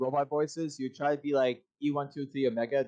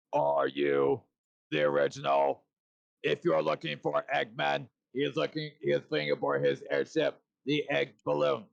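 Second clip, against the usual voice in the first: Shadow voice impression. Shown as a demonstration. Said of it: "I'm gonna do something from the Shadow Hedgehog game".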